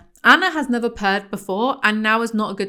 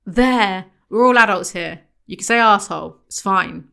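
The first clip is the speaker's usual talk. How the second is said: exasperated scolding; 6 dB louder than usual. Real, not acted. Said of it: "scolding the prudish narrator".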